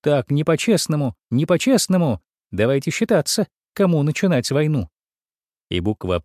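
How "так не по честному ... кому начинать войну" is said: mild mock shout. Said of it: "ёженька громко крикнула".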